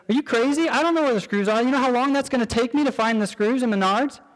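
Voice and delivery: wife's mock disbelief at the errand; incredulous wife. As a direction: toss back an incredulous are you crazy. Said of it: "she looks at me and says".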